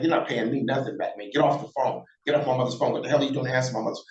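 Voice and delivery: re-enacted cold dismissal of a brother; understated cold contempt; cold and callous. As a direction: cut him off callously, without raising your voice. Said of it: "in such a cold, callous".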